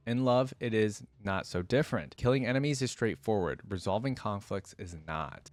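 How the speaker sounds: measured storytelling read; steady audiobook narration of a fantasy tale; story narration. A narrator's reading. Reads the story aloud.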